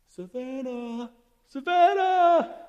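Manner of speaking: loud, high call across the room. Real, not acted. Teacher calling a helper up front, loud high call. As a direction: call her name from far off.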